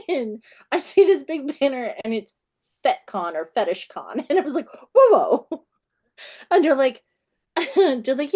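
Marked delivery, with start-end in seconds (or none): 4.9-5.6 loud, higher-pitched double take; startled alarm. Retold or imitated. Author sees the fetish convention banner, startled. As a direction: pull up short in mock shock.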